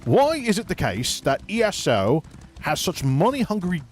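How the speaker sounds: mock British ranting presenter; lightly faked British accent; fake British accent. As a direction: sell the grievance in a put-on British voice. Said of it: "about as ridiculous as my fake accent".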